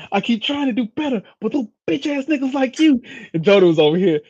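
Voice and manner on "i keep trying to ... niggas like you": high-pitched, strained whine; mock movie-character plea. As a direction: protest as if caught in a headlock. Acts out Baby Boy headlock scene.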